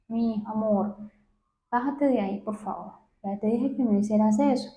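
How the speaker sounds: pleading parent voice. Shown as a demonstration. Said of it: "mira el tono de voz que yo utilicé".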